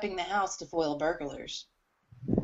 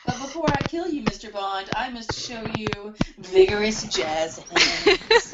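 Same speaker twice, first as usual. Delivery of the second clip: Bond villain. Acted. Bond villain card read again.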